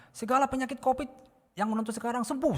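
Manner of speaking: high-pitched healing proclamation; high, commanding prayer call; preacher declaring healing. Retold or imitated. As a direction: imitate a preacher pronouncing healing. Quoting online preacher declaring healing.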